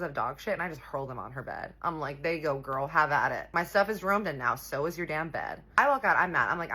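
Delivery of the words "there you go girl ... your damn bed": loud, spiteful comeback, retold; angry retort. Storyteller replaying revenge on the rival's bed, angry retort. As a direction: throw it back at her with mild fury.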